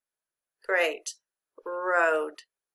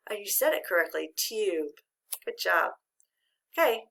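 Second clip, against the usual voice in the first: quick whisper. Real, not acted. Teacher whispers praise.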